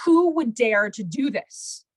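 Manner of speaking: slow, emphatic mock outrage; outraged king. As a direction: demand it slowly, as an appalled ruler. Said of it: "the king freaks out".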